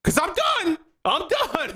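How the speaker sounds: high, fast hammed-up parent running out of steam; mock yelling parent. Worn-out parent finishing a rant, high mock yelling. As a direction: scold them one last time, fed up. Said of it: "I'm yelling at my kids".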